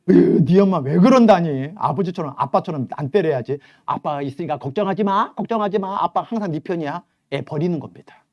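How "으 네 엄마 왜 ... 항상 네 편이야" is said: a touch louder, coddling dad; indulgent father. Acted. Father coddling his crying daughter against her mom, mildly indulgent. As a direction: side with the kid, coddling.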